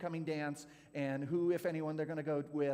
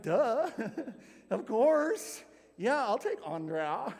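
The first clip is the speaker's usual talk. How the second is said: eager yes; 6 semitones higher, 8 dB louder, slower than usual. Retold or imitated. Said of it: "I'm like".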